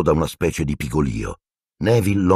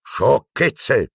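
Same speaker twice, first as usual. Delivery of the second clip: astonished; 7 semitones higher than usual. Acted. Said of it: "esclamò Percy stupefatto".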